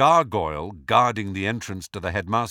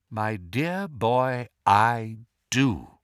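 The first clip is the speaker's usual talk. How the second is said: Dumbledore voice; much slower than usual. Acted. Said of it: "said Dumbledore".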